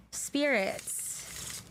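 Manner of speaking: soft whispered invocation. Real, not acted. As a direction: breathe the word to the spirits. Calling on the spirits.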